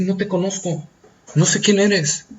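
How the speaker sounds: quiet rejection. Acted. Jesús turning away the religious man, softly.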